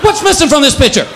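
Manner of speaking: a cat mourning its loss, hammed-up; whiny neutered cat. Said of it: "It's like".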